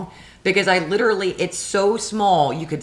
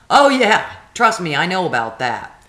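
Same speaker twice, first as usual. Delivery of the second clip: sarcastic retort; 5 dB louder than usual. Retold or imitated. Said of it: "I'm like".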